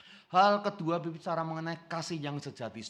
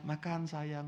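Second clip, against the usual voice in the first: tender lover; 3 dB quieter, much slower than usual. Retold or imitated. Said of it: "ngomongnya lembut ya".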